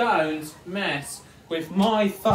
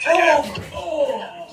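shouting; 8 semitones higher, 4 dB louder than usual. Real, not acted. Wrestling on the bed, shouts.

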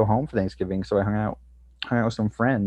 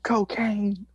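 conspiratorial whisper, pitched up; hushed confession; 10 semitones higher than usual. Real, not acted. Answering what he did on Thanksgiving, hushed confession. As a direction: whisper it like a naughty secret. Confession revealed after a teasing setup.

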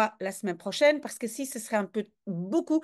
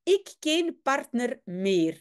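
geen said with a hard g, lightly Spanish; the general's broken Dutch, mock Spanish; Spanish-accented Dutch. Teacher voices the general's lament in Spanish-accented Dutch. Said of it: "on essaie d'imiter l'accent espagnol du général".

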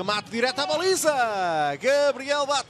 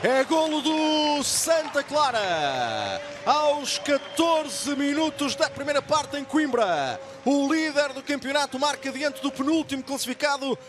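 excited goal call, stretched out; fast dramatic football commentary; 6 semitones higher than usual. Real, not acted.

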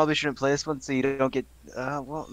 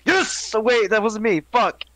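excited then deflated; 8 semitones higher, 5 dB louder, slower than usual. Real, not acted. Thinks he won, then didn't.

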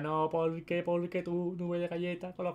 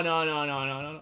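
ordinary talk, nothing marked

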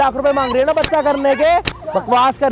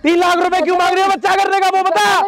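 indignant, higher-pitched interrogation; angry demand; 4 semitones higher than usual. Acted. Man demanding why she wants three lakh, angry interrogation.

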